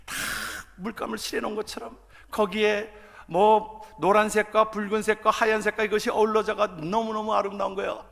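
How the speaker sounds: normal talking voice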